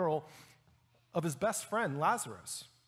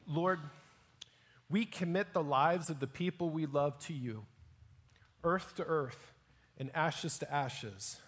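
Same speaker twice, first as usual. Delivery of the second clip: hushed graveside prayer. Acted. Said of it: "receive the blessing I say and I have said countless times at so many grave sites".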